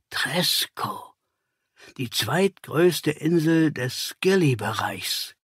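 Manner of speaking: hushed, breathless whisper; awed whisper. Acted. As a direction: whisper the name in shock. Watson swallows, realizes the secret. (erschrocken geflüstert)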